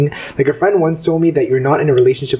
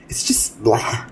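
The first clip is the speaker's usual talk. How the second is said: whispered; 3 semitones lower, 5 dB quieter, slower than usual. Real, not acted. Dismissive about research.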